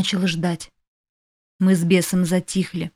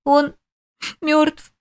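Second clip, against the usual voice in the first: sobbing; 7 semitones higher than usual. A narrator's reading. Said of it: "всхлипнула я".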